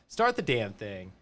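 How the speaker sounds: laughing. Retold or imitated. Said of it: "be like".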